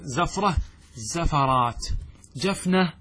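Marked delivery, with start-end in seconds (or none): 0.0-1.9 زفرة then زفرات with fatha on the ف, very slow; zafra, zafarat. Shown as a demonstration. Teacher models the regular plural, very slowly. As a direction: spell out زفرات as za-fa-rat, very slowly. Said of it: "فتقول في".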